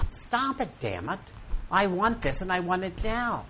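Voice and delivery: insist, fed up; fed-up demand. Pretend. Speaker voicing what the universe wants to hear, emphatic. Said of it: "waiting for you to say".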